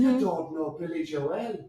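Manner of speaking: put-on slow Irish accent that drifts toward Jamaican; playful, muddled Irish accent. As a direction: draw out a dodgy Irish lilt. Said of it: "The Irish accent sounds kind of Jamaican".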